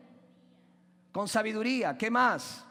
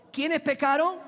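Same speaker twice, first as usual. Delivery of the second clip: higher and louder, demanding an answer; louder prompt; 5 semitones higher, 4 dB louder than usual. Shown as a demonstration. Preacher prodding a silent congregation, louder. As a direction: push the congregation to shout back. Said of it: "Yo no escuché aquí".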